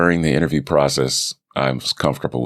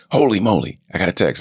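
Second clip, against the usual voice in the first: higher-pitched, mildly excited outburst; retold burst of delighted surprise; excited reaction; 6 semitones higher, faster than usual. Telling viewers how he reacted to the text, excited.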